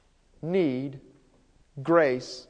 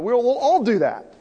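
higher, lightly acted group pledge; disciples ganging in; 4 semitones higher, 3 dB louder than usual. Other disciples joining Peter's promise, lightly insistent. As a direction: swell upward as you chime in. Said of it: "You can imagine them all ganging in".

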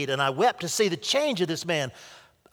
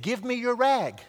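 gentle; 8 semitones higher than usual. A narrator's reading. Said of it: "He said it gently".

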